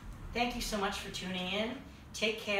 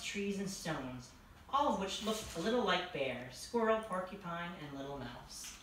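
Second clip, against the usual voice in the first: story narration. A narrator's reading. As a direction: read it to children, easing down towards sleep. Reads a bedtime story.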